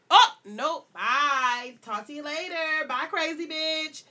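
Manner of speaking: playful mimicked brush-off, slowing down; funny dismissal. Woman imagining Brittany walking off, comically dismissive. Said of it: "does it in a funny way".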